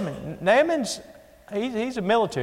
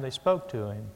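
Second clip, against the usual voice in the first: softer and lower, gently spoken; a preacher demonstrating gentle speech; 7 semitones lower, 6 dB quieter than usual. Shown as a demonstration. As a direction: say it gently, showing how they spoke. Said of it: "They didn't shout at him".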